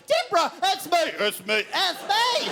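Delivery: put-on high, cracking boy's voice pleading; panicked pubescent voice. Twelve-year-old brother trying to calm his sister, high cracking plea. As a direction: plead to calm her, voice breaking. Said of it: "I try and calm her down".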